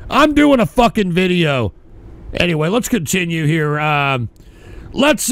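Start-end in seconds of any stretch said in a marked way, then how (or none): 0.1-1.7 annoyed. Real, not acted. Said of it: "y'all are pissing me off".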